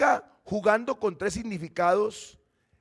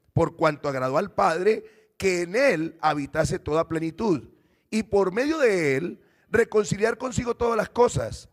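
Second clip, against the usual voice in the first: measured, solemn reading from the pulpit; scripture reading; 4 dB louder than usual. Acted. Pastor reading Colossians to the congregation, solemn and measured. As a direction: read the passage as holy text, a bit louder.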